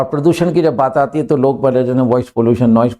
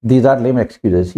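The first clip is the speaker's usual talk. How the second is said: slow teaching read; 3 semitones lower, much slower than usual. Shown as a demonstration. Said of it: "तो parents ने कहा कि".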